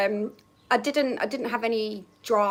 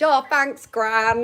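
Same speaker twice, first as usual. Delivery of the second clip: a louder, bright "Oh, thanks, Gran", all perked up; cheery thanks; 5 dB louder, much slower than usual. Retold or imitated. Girl cheerfully thanks her gran for the sandwich, louder. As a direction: sing out "Oh, thanks, Gran" happily.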